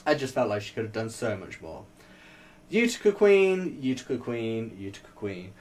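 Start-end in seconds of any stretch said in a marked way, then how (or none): 2.7-5.5 fading repeat. Pretend. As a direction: start bright and fade to a murmur.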